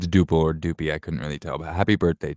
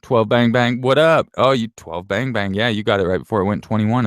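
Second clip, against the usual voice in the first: excited greeting; 4 semitones higher, 5 dB louder than usual. Real, not acted.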